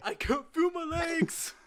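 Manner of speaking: high, loud, slow mock yell; hammed-up slow hallway yell; imitating a yell. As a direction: bellow it down the hallway like Tony. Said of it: "walking around the hallways yelling".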